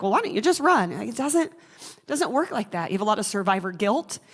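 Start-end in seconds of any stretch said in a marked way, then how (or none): 0.0-1.0 raised, pushy "why" with a falling end; mock dismissive question. Survivor mocks outsiders asking why she doesn't leave, exasperated. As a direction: toss off the question as if it were obvious. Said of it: "you're like".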